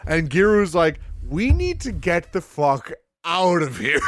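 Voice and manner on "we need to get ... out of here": mock urgency. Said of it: "I can't express to you enough".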